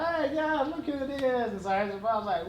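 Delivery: high-pitched jokey phone hello; playful greeting. Retold or imitated. Answering an unknown number, playful high greeting.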